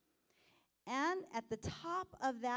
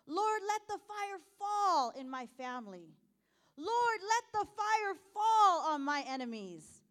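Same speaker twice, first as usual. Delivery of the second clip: crying out in prayer; 4 semitones higher, 5 dB louder than usual. Retold or imitated. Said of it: "do I cry out".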